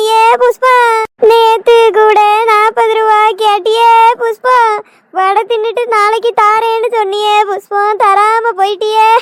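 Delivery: hammed-up lament for a friend she thinks died; mock funeral wailing. Woman mourning neighbour over forty rupees, mock wailing. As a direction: wail it like a village oppari, half joking. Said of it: "ஒப்பாரி வைக்கிறத நிறுத்து".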